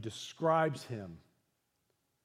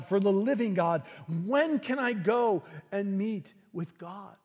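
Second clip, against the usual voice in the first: raised, fervent preaching of the psalm's names for God; 4 semitones higher, 5 dB louder than usual. Acted. Pastor proclaiming God's names to the church, full-force preaching. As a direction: proclaim each name of God to the congregation.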